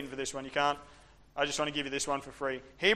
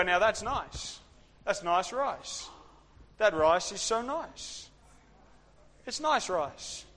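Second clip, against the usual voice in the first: savouring nice rice; 3 semitones higher, slower than usual. Retold or imitated. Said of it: "Rice is something you go".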